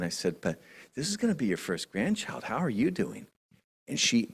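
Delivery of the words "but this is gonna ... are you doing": gentle concern. Retold or imitated. Gently asks grieving grandmother how she is.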